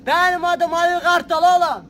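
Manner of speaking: slow, loud tough-guy intro; movie villain line. Acted. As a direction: say it like a menacing film boss. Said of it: "tanıtım repliği, yavaş ve vurgulu". (ağır, tehditkâr film kötüsü)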